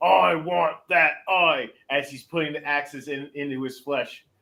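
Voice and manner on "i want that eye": in-character battle cry. Voicing a character climbing a giant to attack: crying out. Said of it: "Grismite just starts crying, uh, going".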